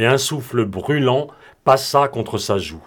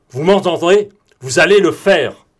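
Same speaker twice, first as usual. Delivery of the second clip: the order shouted higher and louder, the word allez hammered; forceful shouted order; 6 semitones higher, 7 dB louder than usual. Acted. Broom shouts at Morane that he will land the plane, forceful. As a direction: drive it home so he can't say no.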